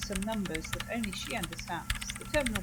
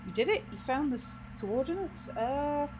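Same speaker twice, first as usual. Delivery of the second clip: higher-pitched, halting astonishment; amazed congratulations; 6 semitones higher than usual. Acted. Onlooker congratulating the programmer on her find, amazed. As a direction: stumble into delighted disbelief.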